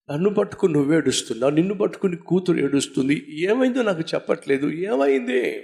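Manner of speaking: frantic questioning. Acted. Emperor begging his sobbing wife to explain, rushed and frantic. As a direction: fire the questions fast like a panicked father. Bewildered father asks wife why.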